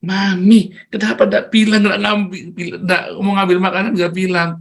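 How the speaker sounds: put-on high-pitched child questioning mum; acted-out toddler reproach; Miracle. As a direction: challenge mum like an indignant small child. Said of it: "akhirnya Miracle suatu ketika udah pinter".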